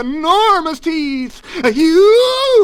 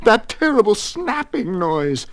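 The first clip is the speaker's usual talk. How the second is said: frantic, rising louder and higher, cut off abruptly; shriek building in panic; 12 semitones higher, 9 dB louder than usual. A narrator's reading. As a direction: spiral into comic hysteria. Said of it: "he shrieked".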